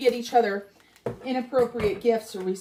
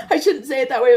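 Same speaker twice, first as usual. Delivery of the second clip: louder, laughing self-correction; 7 semitones higher, 6 dB louder, much faster than usual. Real, not acted. Telling viewers she shouldn't have sworn, laughing. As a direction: say it through leftover laughter. Laughing at own swear word.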